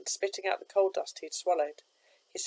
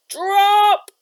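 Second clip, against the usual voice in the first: sudden high, loud shout; yelled order; 16 dB louder than usual. A narrator's reading. Skipper yelling down to the barge crew, loud shout. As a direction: bellow the command down from above. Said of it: "he yelled".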